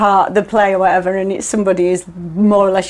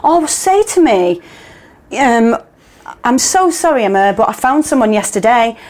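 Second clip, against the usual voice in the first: exasperated plea; 5 semitones higher than usual. Retold or imitated. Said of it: "my whole being wanted to go".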